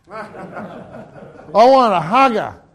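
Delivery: slow laughing delight. Real, not acted. Telling the congregation about the cheap carpet, laughing. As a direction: laugh through the words, slowly.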